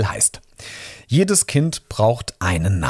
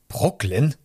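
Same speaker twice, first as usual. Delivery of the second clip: Brooklyn as a higher, rising question; surprised call; 4 semitones higher than usual. A narrator's reading. Registrar reacting to the name, surprised rising Brooklyn. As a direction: query Brooklyn in mild disbelief. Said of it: "rief die Beamtin".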